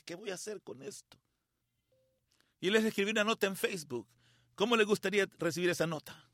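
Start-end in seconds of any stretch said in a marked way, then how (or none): 0.0-1.2 very soft question to himself; hushed bewilderment. Retold or imitated. Man looking at his brother's photo, hushed bewilderment. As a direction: wonder it under your breath.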